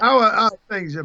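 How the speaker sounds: badly faked British accent; lightly put-on British English; crap British accent. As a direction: greet them in a half-hearted British accent. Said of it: "the accent was crap".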